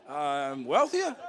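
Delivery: slow, loud words through laughter; laughing. Real, not acted. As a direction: stretch it out while cracking up. Laughing at own joke.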